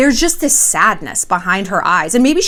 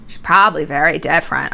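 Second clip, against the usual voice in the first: put-on a lightly done Massachusetts accent on probably; Massachusetts accent, said a bit lower; 5 semitones lower than usual. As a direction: try the Boston accent again, lower. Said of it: "I'm trying to do a Massachusetts accent".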